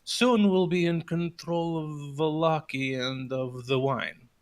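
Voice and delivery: slow, calm, unhurried read. Acted. Erwin reads the damning letter to the crowd, slow and calm. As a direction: let it land calmly and slowly. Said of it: "calmly as he's reading it out".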